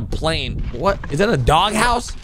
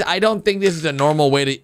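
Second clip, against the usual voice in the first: ordinary talk, nothing marked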